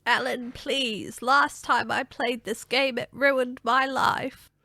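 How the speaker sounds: put-on slow, pleading old woman; a frail old lady begging. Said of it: "I love the old lady voice".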